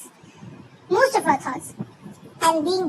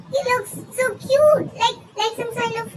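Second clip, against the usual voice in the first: squeaky cartoon voice; 5 semitones higher than usual. Gushing over a cute dog.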